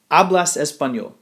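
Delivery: "Hablas español?" said as a Spanish question. Shown as a demonstration. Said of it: "put an upside down question mark".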